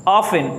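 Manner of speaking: often said as of-in with no t; correct pronunciation. Shown as a demonstration. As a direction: model often without the t. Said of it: "इसको पढ़ा जाता है often". (often बिना t के बोलना)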